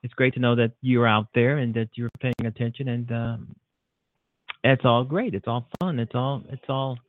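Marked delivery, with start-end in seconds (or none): 4.6-7.0 breathless, winded talk; out of breath. Real, not acted. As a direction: speak while catching your breath. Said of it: "I'm out of breath".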